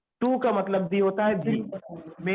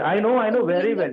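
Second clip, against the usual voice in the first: snide retort; 3 semitones higher, 5 dB louder, much slower than usual. Retold or imitated. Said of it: "Sharma ji ने भी ऐसे बोला".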